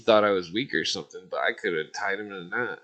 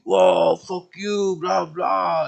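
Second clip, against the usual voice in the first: higher, put-on mocking voice of the roommate; 9 semitones higher, 6 dB louder, much slower than usual. Roommate snapping back over the dishes, high mocking voice. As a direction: sneer back like a brat. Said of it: "he fucking was like".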